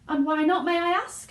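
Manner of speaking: high, loud indignant demand; shouting mother. A narrator's reading. Mother shouting at Wonka, high and loud. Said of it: "shouted Missus Gloop".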